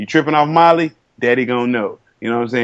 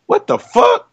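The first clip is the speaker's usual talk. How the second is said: high-pitched imitation of a stunned mother; mock shocked mama; slower than usual. Mama sees her son's botched haircut, mock shock. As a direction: squeal it like an appalled mama. Mama's shocked reaction, retold.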